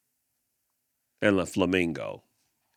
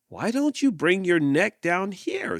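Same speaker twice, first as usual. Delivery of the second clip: snake voice; 10 semitones higher, 3 dB louder than usual. Acted. Snake suggests a fix.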